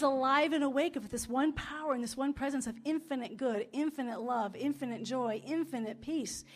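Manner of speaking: affirmative prayer. Acted. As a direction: pray it out, rising with conviction.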